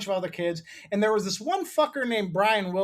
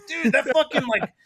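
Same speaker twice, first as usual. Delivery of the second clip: aggrieved complaint; 5 semitones higher than usual. Retold or imitated. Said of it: "And he's like".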